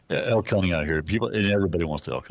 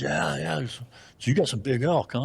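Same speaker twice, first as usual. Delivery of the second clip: higher, teasing imitated voice; mock eastern hunter; 9 semitones higher than usual. Eastern hunter teasing the narrator about Arizona elk, mock high. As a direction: needle the Arizona guy about his big elk. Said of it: "He goes".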